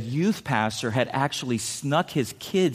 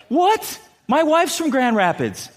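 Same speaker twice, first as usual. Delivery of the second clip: high, loud shocked "What?"; offended manager; 11 semitones higher, 4 dB louder, slower than usual. Retold or imitated. Manager reacts to the insult about his wife, high and shocked. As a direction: bristle like a husband insulted. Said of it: "And the manager goes".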